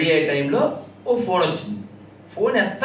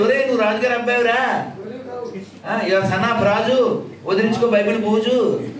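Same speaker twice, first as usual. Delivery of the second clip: mock wake-up call; 3 semitones higher than usual. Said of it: "అని చెప్పాలి వాళ్ళకి".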